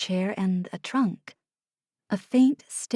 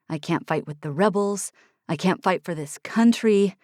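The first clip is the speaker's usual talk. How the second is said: frustrated Oliver. Acted. Oliver's rant in low voice.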